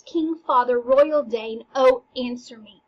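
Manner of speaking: loud pleading call, King father; calling out to the ghost. Acted. Teacher reading Hamlet, calling loudly to the ghost.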